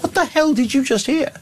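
high, exasperated "what the hell"; mock-outraged disbelief at a critic; incredulous retort. Retold incredulous reaction to a comment.

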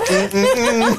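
high, teasing "mm, mm, mm" with laughter; talk-show "mm-mm". Retold or imitated. Recalling old American talk shows for colleagues, sassy imitation. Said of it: "do you remember the sort of Zed thing".

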